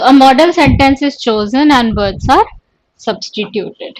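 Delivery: each word spaced out for notes; teacher dictating notes; slow dictation. Shown as a demonstration. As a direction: dictate it slowly so students can write. Teacher repeats the dictated line.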